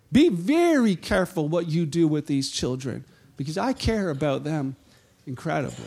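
tender warning. Retold or imitated. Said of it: "tags on to it and says".

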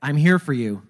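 a hint of Letterman; David Letterman. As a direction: say it straight to the viewer. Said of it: "and he said".

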